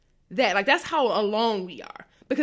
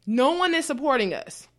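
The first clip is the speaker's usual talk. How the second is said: ordinary delivery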